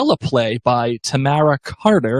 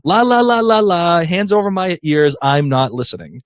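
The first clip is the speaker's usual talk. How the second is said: mock refusing to listen; 3 semitones higher than usual. Host reading a listener's plea not to hear, mock refusing to listen. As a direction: playfully chant as if blocking out the news.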